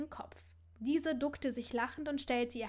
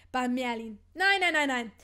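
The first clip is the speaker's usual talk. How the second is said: flustered refusal; 9 dB louder than usual. Acted. Hermine panics at the thought.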